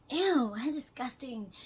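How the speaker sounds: slow, drawn-out mocking "ew"; hammed-up disgust, stretched out. Quotes a hateful message.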